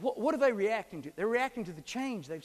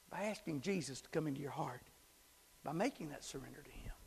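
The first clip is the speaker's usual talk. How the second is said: much softer, fading into a whisper; hushed altar call; 2 semitones lower, 7 dB quieter than usual. Acted. Preacher inviting listeners to Jesus, hushed whisper. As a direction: draw them in gently to surrender.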